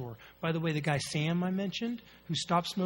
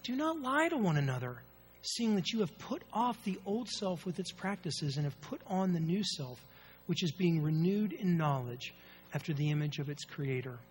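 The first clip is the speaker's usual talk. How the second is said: scripture reading. Real, not acted. Reads scripture aloud.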